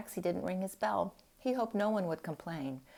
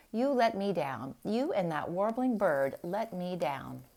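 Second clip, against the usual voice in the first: angry scolding; 4 dB louder than usual. Acted. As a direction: scold her, pressing each complaint. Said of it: "she shouted angrily".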